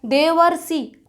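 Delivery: देवर्षि drawn out with the अर clear; teacher stressing the hidden अर; slow sounding out. Shown as a demonstration. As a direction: say देवर्षि slowly and stretch the अर. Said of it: "अर का उच्चारण छिपा है".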